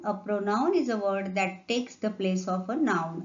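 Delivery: slow deliberate definition; slow dictation. Shown as a demonstration. Teacher repeating the definition for notebooks, slow. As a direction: say it slowly so children can copy.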